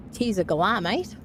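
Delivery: put-on light Australian accent, casual; a hint of Aussie twang on mate. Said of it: "That was an Australian accent I was doing".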